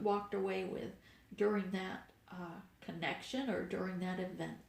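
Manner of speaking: blocked nose, congested voice; stuffy nose. Real, not acted. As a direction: talk through a stuffed-up nose. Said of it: "I don't know why I'm getting so stuffed up".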